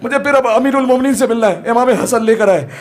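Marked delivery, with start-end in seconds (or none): 0.0-1.6 imitating a weeping follower, pitch climbing; mild tearful plea. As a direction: plead as if grieving, without real sobs. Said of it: "रो रो कर कहते हैं".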